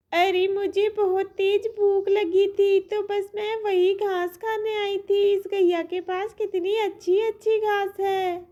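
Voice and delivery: put-on a hungry baby calf eyeing the grass. Calf spotting fresh grass, high and hungry.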